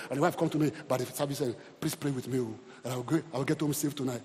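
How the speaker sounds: soft, low begging wife; a wife's hushed worried request; timid plea. Retold or imitated. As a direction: plead quietly for prayer. Wife's plea voiced by preacher.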